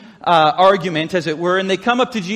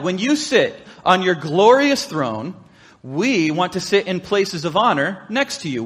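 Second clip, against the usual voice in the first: scripture reading. Acted. Pastor reading the disciples' request, measured.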